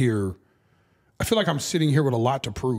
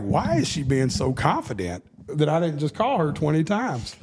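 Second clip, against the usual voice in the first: retold annoyance. Dad fuming as his daughter walks over, mildly mock-angry. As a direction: re-enact getting madder, with swinging pitch. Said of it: "I'm getting madder".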